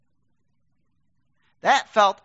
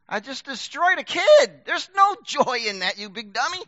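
self-scolding; 3 semitones higher, 3 dB louder than usual. Retold or imitated. Self-scolding in retold thought.

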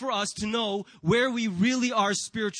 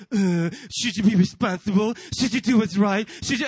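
louder, prim nagging conscience voice; mock preachy voice of conscience; 5 dB louder than usual. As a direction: needle like an unwelcome inner scold. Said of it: "that stupid voice pops out of nowhere".

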